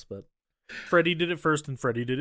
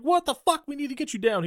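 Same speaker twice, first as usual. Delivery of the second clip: high startled yelp; mock shock; 12 semitones higher, 4 dB louder than usual. Host retelling the heroine's fright, high mock shriek. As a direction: squeal it in fake panic. Heroine retold seeing body.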